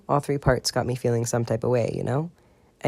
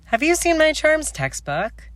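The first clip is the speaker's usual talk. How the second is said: put-on much higher, slow, louder frantic girl; hunting for a lost book, half panicked; frantic Marlene; 5 dB louder than usual.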